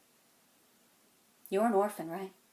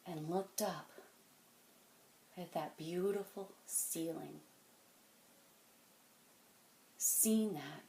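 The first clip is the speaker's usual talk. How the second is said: hushed reverence; 3 semitones lower, 9 dB quieter than usual. Acted. Man challenging a kid on the Sistine Chapel, hushed. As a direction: let it sink to a quiet, lingering hush. Wistful turn in monologue.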